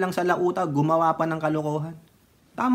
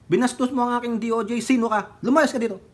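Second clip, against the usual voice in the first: president scolding; 5 semitones higher than usual. Retold or imitated. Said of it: "Kaya ng presidente yun".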